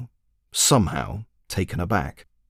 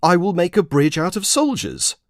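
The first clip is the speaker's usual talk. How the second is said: lecturing wizard; 9 semitones higher than usual. Acted. Wizard lecturing the commander on magic, high and grand. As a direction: proclaim it like a grand sage. Wizard announcing his plan.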